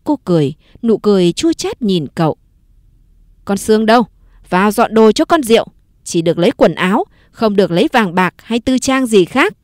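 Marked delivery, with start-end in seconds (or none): 3.4-9.6 stern order. Acted. Mistress orders the servants.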